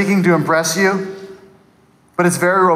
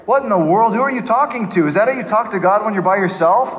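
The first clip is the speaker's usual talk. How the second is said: higher-pitched disbelief; incredulous questioning; 3 semitones higher, faster than usual. Retold or imitated. Listener questioning a man's orchestrated prayer, incredulous. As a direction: challenge him as if you can't believe it. Mock challenge to showy prayer.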